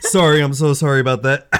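hoarse apology between coughs; strained throat, still clearing the water; coughing up water. Real, not acted. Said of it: "why am I choking".

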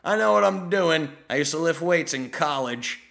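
puffed-up imitation of a know-it-all; mock cockiness. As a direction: brush off the coach with mock bravado. Cocky ex-athlete quoted, brushing off advice.

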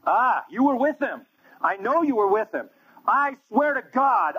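high, slow, insistent mock voice; accusing bystander. Another bystander accuses Peter, high slow mock voice. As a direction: drag it out high like a nosy bystander. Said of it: "Another person".

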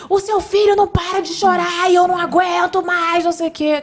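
imitação aguda de homem exasperado gritando; grito imitado. Retold or imitated. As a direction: reclame aos gritos, encenando a irritação. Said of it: "e ele gritou". (gritando exasperado, em imitação)

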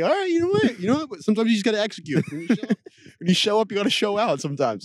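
high, fast, pumped-up; hyped self-pep talk. Retold or imitated. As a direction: psych yourself up to go talk to him. Imitating himself hyped at German.

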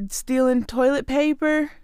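ordinary talk

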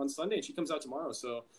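burpy voice from a protein shake; talking through burps; talking while burping. Real, not acted. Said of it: "excuse me, I keep burping".

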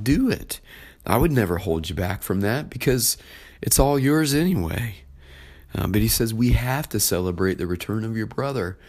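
the father persuading his older son, lightly voiced; gentle father. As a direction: urge him warmly to join in. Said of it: "The father says".

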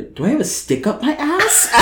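laughing while quoting friend; quoted through laughter. Retold or imitated. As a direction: crack up mid-line. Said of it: "no, she goes".

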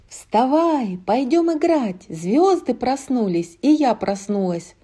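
put-on high eager child voice; excited little girl. Little Anna waking sister.

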